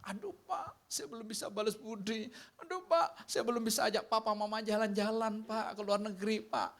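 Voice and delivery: lightly voiced lamenting child; regretful child. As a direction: play the grown child full of regret. Voices grieving adult child.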